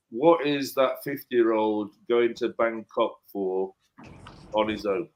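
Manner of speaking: slow, sneering disapproval; mock judgy sneer. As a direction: sneer it like a judging onlooker. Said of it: "can you stop saying it like that".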